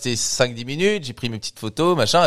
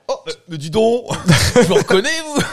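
high, giggly fake surprise; starstruck fan; 11 semitones higher, 6 dB louder than usual. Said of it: "tenter ma chance en mode".

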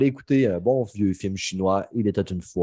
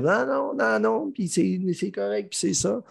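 mocking high voice; 11 semitones higher, 4 dB quieter, slower than usual. Mocking the guys who argued.

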